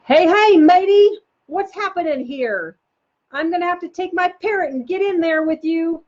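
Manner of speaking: loud, high hammed-up pirate. Shown as a demonstration. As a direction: greet the kids like a swashbuckling pirate. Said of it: "the pirate one".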